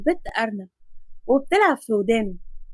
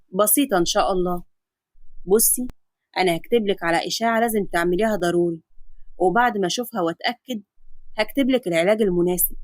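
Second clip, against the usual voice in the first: a lower, steady doctor's voice; calm doctor; 4 semitones lower than usual. Acted. Adam explaining the X-ray to his patient, calm lower doctor voice. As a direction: reassure the patient like a calm physician.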